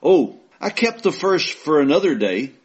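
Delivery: poem recital. Acted. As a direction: give each line its weight, like a recital. Reads Frost poem aloud.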